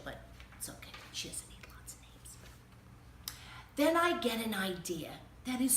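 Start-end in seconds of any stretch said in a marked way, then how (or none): 0.0-2.4 unvoiced, much softer aside; whispered aside. Reader confiding to the kids, whispering. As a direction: breathe it out as a secret.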